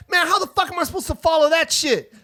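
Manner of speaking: high-pitched, exasperated protest; incredulous complaint. Retold or imitated. Host complains to the producer after the set, high incredulous protest. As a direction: play up the outraged disbelief, voice way up.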